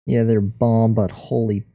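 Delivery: talking through hot wings; mouth full of hot food. Real, not acted. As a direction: mouth burning from spicy food. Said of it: "my mouth is on fire".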